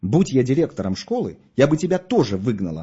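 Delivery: plain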